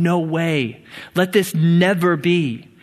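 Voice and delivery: firm refusal, slowing on "Let this never be"; emphatic no. Acted. Preacher rewording Paul's strong Greek no, emphatic no. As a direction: push "never" firmly in "Let this never be". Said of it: "In Greek, it's really strong".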